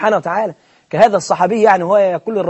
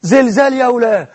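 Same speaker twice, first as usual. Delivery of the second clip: high, slow mock panic cry; a hammed-up frightened shout; panicked imam; 5 semitones higher, slower than usual. Preacher imitating the imam fleeing the earthquake in panic. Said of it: "قال".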